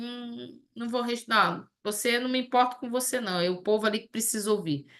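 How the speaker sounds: fast, dismissive made-up quote; mock indifferent Father. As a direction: brush them off quickly, as the wrong idea of God. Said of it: "Não é que o Pai tá assim". (Pai indiferente, fala rápida e desdenhosa)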